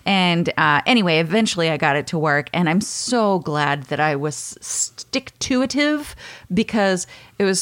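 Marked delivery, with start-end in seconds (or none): none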